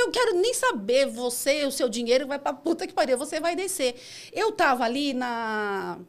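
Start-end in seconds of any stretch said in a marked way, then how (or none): 0.0-3.9 raised, higher retold retort; angry dismissal. Driver refuses the passenger's money and orders her out, angry. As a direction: act out fed-up anger.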